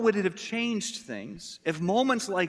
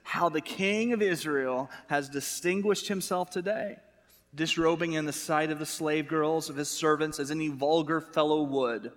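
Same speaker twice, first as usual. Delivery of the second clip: sarcastic. Retold or imitated. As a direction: imitate a wife's cutting sarcasm. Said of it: "pick up on the sarcasm here".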